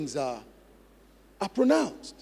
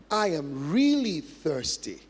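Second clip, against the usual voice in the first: slow mirroring drill; slower than usual. Shown as a demonstration. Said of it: "mirror them".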